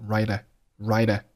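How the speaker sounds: "ride" run into "a", like "rida"; linked RIDE A. Shown as a demonstration. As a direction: attach a short "uh" straight onto "ride". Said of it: "ride和a连读成了ride".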